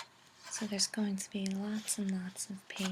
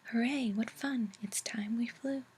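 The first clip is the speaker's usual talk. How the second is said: playful whispered rhyme, a little more projected; whispered nonsense verse; 4 dB louder, faster than usual. A narrator's reading. Reader sharing a fun children's poem, whispered playful recital. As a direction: lilt through the rhyme in a whisper.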